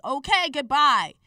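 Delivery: emphatic dismissal. Retold or imitated. Woman retelling how she dismissed the man she shoved off, emphatic. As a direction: shut him down with a big send-off. Retold parting after shoving him.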